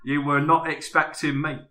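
lightly voiced London actor; hint of a Cockney film star; Michael Caine impression. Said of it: "Michael Caine".

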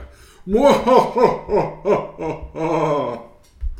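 loud villain cackle; evil laugh. Shown as a demonstration. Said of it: "give Chandra an example".

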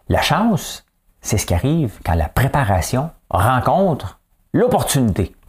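measured read-aloud with lifted key words; reading out a quote. Real, not acted. Host reads the thought of the day to viewers, deliberate read-aloud. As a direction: read it out deliberately, pausing between phrases. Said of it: "moi, je vais lire".

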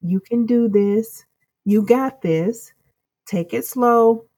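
a light touch of a grandma's patient encouragement; gentle grandma encouragement. Retold or imitated. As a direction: coax calmly, step by step. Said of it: "that grandma ... it's like".

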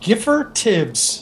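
"Giffer Tibbs" said very slowly, word by word; slow repeat. Shown as a demonstration. Game master repeats "Giffer Tibbs" for a player, slowly and distinctly. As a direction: draw out "Giffer Tibbs" so it can be caught. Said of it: "Can you repeat his name?".

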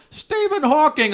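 high, drawn-out heckler's yell; yelled request. Retold or imitated. Audience member shouting out an impression request, slow imitated yell. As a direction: call it slowly from the back of the room. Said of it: "some guy in the back yells".

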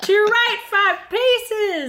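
high, slow, loud guiding call; head's voice. Retold or imitated. Head guides its body home, loud and high. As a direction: call out directions like a lost head. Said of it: "his head will be like".

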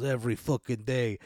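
annoyed Italian robot grumble; grumpy Italian accent. Retold or imitated. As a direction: mutter it like a fed-up Italian worker. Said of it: "really pissed off".

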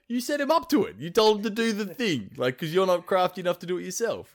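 high, pointed accusing pitch; mock indignant accusation. A friend mocking the gods who blamed Loki, indignant high voice. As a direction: jab at them, voice way up.

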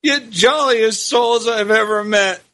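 pleading, voice cracking with emotion; choked-up plea for two poor souls; voice breaking with emotion. Acted. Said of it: "he said in a voice breaking with emotion".

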